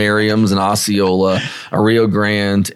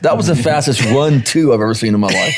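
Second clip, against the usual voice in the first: laughing. Real, not acted. Laughing at the running bird.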